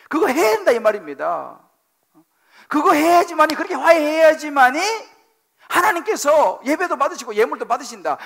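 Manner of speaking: loud, high insistent preaching; preaching at full force. Acted. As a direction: hammer the must home. Hammering the point home.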